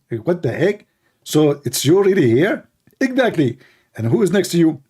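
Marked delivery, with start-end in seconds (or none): 3.0-3.6 lightly raised mock debater voice; a hint of a parodied debater, higher; Zakir Naik. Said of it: "This is me, Zakir Naik".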